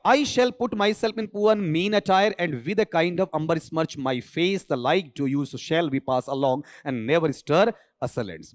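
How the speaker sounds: very slow recited English lines; slow recitation of Celia's lines; dramatic reading. Shown as a demonstration. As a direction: read it out like a stage line, slowly. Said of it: "teacher reads Shakespeare quote".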